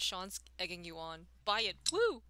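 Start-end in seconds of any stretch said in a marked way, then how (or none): 1.9-2.2 high little anime squeal; anime girl voice. Acted. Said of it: "the anime girl voice".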